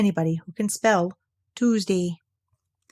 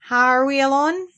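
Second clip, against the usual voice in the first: Eeyore, secretive; 5 semitones higher, 4 dB louder than usual. A narrator's reading. Eeyore's gloomy secretive question.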